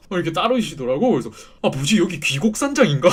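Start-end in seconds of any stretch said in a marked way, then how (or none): 1.6-3.1 startled thought. Retold or imitated. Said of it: "막 이런 생각하다가".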